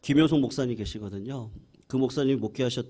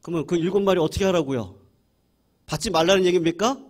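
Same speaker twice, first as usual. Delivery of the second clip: indignant disbelief; 3 semitones higher, 4 dB louder than usual. Retold or imitated. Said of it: "손이 이렇게 올라가는 거죠".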